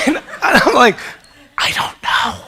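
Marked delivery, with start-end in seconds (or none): 1.6-2.4 laughing helpless reply. Retold or imitated. Retelling his tearful reply.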